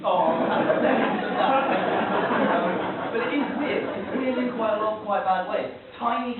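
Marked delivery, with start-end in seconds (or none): 0.1-2.5 drawn-out "Oh", laughing, louder, falling end; dawning realisation. Acted. Acted realisation of the taste.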